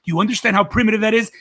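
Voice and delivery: lightly voiced comedian marvelling; mock amazement. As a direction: play up the wonder of it. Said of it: "He says".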